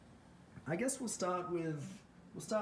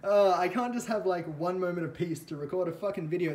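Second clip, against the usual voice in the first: frustrated rant; 4 semitones higher, 7 dB louder than usual. Real, not acted. Venting after alarm interruption.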